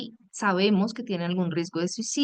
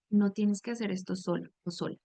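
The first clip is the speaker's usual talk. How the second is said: kind and reassuring. Shown as a demonstration. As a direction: offer company, not orders. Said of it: "algo más lindo para decir sería".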